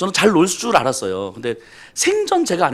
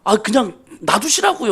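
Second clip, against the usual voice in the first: mock annoyed deaconess; 4 semitones higher, slower than usual. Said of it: "이렇게 화를 내시는 거예요".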